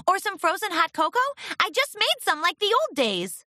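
high nervous wavering voice. Acted. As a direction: keep it nervous and shaky. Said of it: "her voice wavering".

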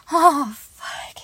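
breathy whispered curse; aroused whisper. Acted. To her partner, in a turned-on whisper.

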